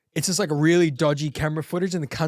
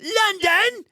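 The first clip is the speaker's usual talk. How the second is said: put-on English accent; 4 dB louder than usual. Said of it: "he's like".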